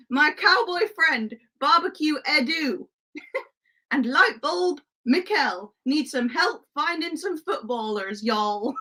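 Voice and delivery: playful put-on Western accent; cowboy accent. Streamer introduces cowboy friends who need help, in mock cowboy accent. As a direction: talk like a mock Wild West sheriff. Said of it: "no, not the accent".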